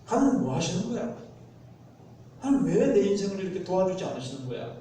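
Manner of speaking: mock-indignant questioning of God; a touch of exasperated reproach; angry complaint to God. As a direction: act out a mildly angry protest. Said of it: "예, 화를 내고".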